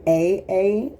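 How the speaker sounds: sounding out the letter A, loud and clear; letter sounds. Shown as a demonstration. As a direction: model the two A sounds for a child. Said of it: "A makes two different sounds".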